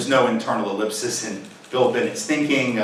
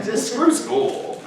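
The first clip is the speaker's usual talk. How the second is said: mock careless shrug; 10 semitones higher, 4 dB quieter, much slower than usual. Mocking the message to kids.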